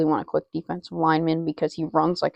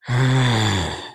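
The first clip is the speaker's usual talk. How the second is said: lower, fuller mock roar; better lion roar; 8 semitones lower than usual. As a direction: give a deeper lion roar. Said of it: "That's better".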